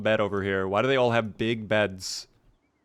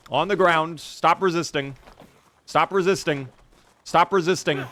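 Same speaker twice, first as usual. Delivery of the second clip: barking police orders, a bit louder; mock cop commands; 4 semitones higher, 3 dB louder than usual. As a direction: play a cop subduing a suspect.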